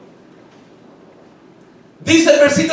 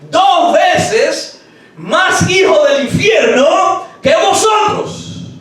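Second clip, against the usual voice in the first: condemning shout; 4 semitones higher, much slower than usual. Acted.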